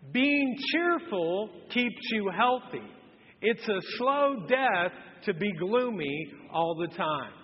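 slow, measured verse reading together; reading scripture aloud. Real, not acted. Pastor leading the church in a slow scripture reading. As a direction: read it slow so the congregation follows. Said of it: "Let's read this out loud".

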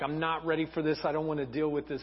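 low, soft, defeated murmur; crushed. Acted. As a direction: say it quietly, crushed and overwhelmed. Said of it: "Joseph's crushed".

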